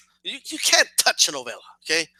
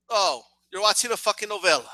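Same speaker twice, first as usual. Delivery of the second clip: deflated realisation; 6 dB quieter than usual. Retold or imitated.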